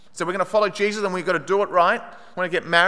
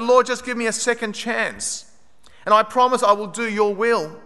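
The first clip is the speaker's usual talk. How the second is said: higher-pitched retold plea; earnest prayer; 5 semitones higher than usual. Trapped woman promises God her life, earnest pleading. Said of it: "How many people have prayed that".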